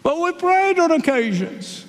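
high, whiny pleading; pleading excuse. Acted. Foolish ones pleading.

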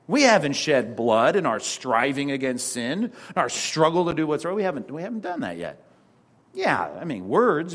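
ordinary delivery

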